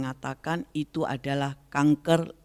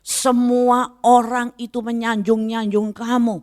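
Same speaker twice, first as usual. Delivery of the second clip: higher, fervent voice of God speaking to her; raised, lightly acted divine voice; 8 semitones higher than usual. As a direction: speak as God gently rebuking. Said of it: "seperti Tuhan katakan dalam hati saya".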